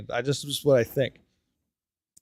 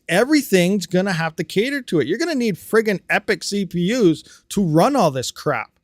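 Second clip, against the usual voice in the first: worked-up rant, pitch raised; exasperated, higher-pitched ranting; riled up; 4 semitones higher than usual. Real, not acted. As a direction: get heated as the demands pile up. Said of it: "I'm getting riled up here".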